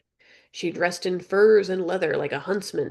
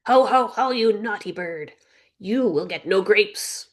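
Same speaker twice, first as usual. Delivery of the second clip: mocking parrot; 3 semitones higher than usual. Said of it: "Polly mocked".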